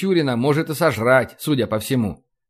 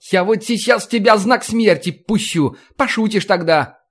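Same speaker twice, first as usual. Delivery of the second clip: half-hearted threat; 6 semitones higher than usual. A narrator's reading. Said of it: "пригрозил он, впрочем, неискренне".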